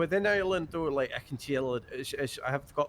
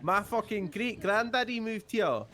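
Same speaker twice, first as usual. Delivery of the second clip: mock proud Irish claimer; 6 semitones higher, slower than usual. Mocking a fake Irish claimer.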